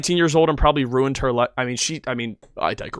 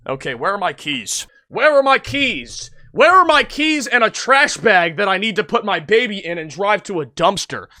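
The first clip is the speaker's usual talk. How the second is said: mock calm planning; 8 semitones higher, 3 dB louder than usual. Shown as a demonstration. Speaker mocking the mother's calm planning, high sarcastic tone. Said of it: "Panic is not".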